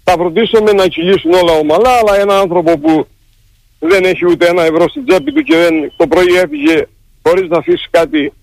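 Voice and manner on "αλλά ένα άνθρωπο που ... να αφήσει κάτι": real emotion breaking up the words; halting, struggling to get through it; choked with emotion. Real, not acted. Striker speaking of a penniless colleague, choked with emotion. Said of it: "συγχωρήστε με για τις κίνησες".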